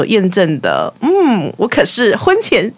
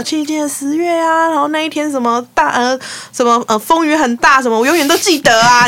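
higher pitch, a hint of an aunt recalling; mildly acted recollection, pitched up; lightly voiced reminiscing aunt; 6 semitones higher than usual. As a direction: imitate an aunt recounting her memories. Aunt's emphatic recollection acted out.

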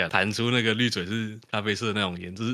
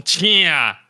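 much higher, loud shout of please go ahead; loud retort; 7 semitones higher, 8 dB louder than usual. Retold or imitated. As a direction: bark it at the rude customer, louder and higher. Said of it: "我就很大声地讲".

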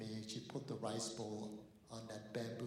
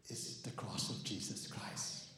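hushed whisper; slower than usual. Acted. Pastor whispering the answer to the congregation, slow. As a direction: drop to a reverent whisper.

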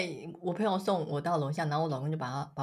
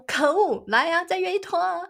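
mock provoked; 10 semitones higher, 4 dB louder than usual. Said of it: "那个男人就被激怒".

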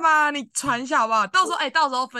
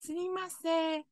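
Japanese tourist voice; 8 semitones higher, 8 dB quieter than usual. Retold or imitated. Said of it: "给我学那个日本腔".

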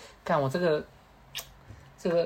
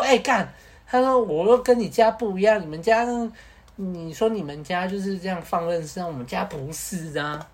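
exasperated protest; 3 semitones higher than usual. Retold or imitated. Friend protesting family difference.

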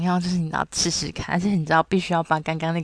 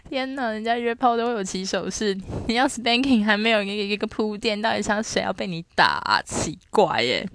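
incredulous rant; 4 semitones higher than usual. Retold or imitated. Both friends stunned by direct man.

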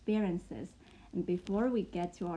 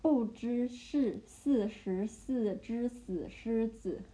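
不知是四十四只死狮子 again slowly with a rise; 不知是四十四只死狮子 spaced out; slow repeat; slower than usual. Shown as a demonstration.

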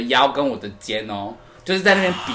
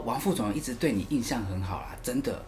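softer, heartfelt reassurance; earnest advice; 3 semitones lower, 12 dB quieter than usual. Retold or imitated. Junior manager reassuring about the VP, mild earnest tone. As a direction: lean in like a caring mentor. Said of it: "他语重心长哦".

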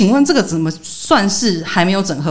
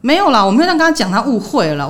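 imitating startled denial; 3 semitones higher than usual. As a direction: act out someone caught off guard, backpedalling. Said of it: "然后他就吓到". (模仿被吓到后慌忙否认)

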